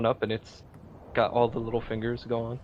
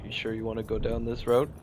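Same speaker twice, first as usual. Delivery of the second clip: put-on gruff old fisherman. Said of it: "an old fisherman".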